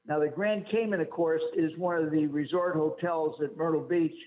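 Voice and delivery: echoey phone line; talking from inside a cave. Real, not acted. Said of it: "Are you in a cave?".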